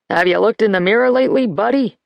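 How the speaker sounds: insulted friend snapping a quick retort; sharp comeback. Acted. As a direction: fire it back at the old man fast. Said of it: "Marty shot back".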